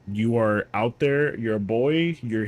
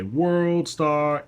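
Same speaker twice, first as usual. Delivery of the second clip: higher hyped "World Star" call; 6 semitones higher than usual. Retold or imitated. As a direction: throw out "World Star" like a hype shout. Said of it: "pop off and say".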